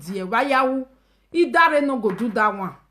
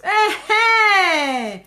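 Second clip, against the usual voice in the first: excited cry; 7 semitones higher, 3 dB louder than usual. Real, not acted. Excited reaction to offer.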